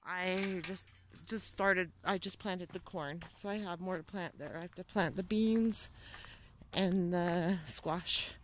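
jolted voice while walking; on a bumpy road. Real, not acted. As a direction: talk while bouncing over rough ground. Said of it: "sorry about the bumpy ride".

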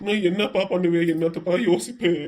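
acted helpless crying lament; tearful despair. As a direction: wail helplessly to your father. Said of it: "ஏங்க இப்படி அழுவாதீங்க".

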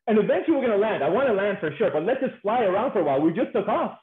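mock plea with stretched-out opening words; pleading. Women begging the pilot to keep flying, pleading. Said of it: "Women will beg you".

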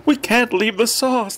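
put-on slow, high-pitched desperate old man; old man crying out. A narrator's reading. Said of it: "the old man cried".

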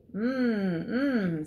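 drawn-out storybook "mmm"; appreciative sniffing hum. A narrator's reading. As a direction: hum hungrily at a tasty smell. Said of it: "sniffed the cow".

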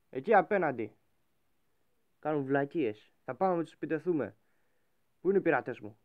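loud rallying call to the crew; pirate captain shout. Acted. Captain shouting orders to his pirate crew, loud.

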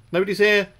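high, loud taunting voice, building; mocking sing-song. Mocking enemy, rising.

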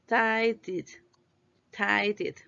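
Tidied split into two clear beats, ending -did; two syllables. Shown as a demonstration. Teacher models the extra syllable, Tidied in two beats. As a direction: sound out both syllables of Tidied. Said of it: "son dos sílabas".

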